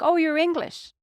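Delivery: high, bright exclamation of assumption; a stranger jumping to the wrong conclusion; mock surprise. Imitating people who mistake her accent, mock surprised. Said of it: "and they'd be like".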